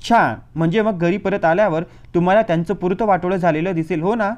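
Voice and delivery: loud sarcastic snarl; growling at him. Acted. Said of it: "घुरकावली". (मोठ्या आवाजात घुरकावलेलं टोमणं)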